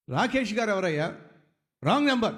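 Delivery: a touch of midnight annoyance; irritated. Retold or imitated. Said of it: "చిరాకుతో జవాబిచ్చాడు".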